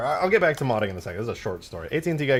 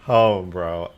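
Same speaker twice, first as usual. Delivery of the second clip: slow, laughing through the question; laughing retelling; 8 dB louder, much slower than usual. Retold or imitated. Streamer retelling the salesman's line while laughing. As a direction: crack up while repeating it.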